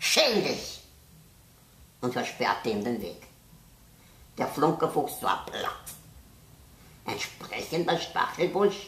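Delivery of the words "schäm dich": high, hissed-out voice. A thorny bush stops a fox chasing a hare, hissed.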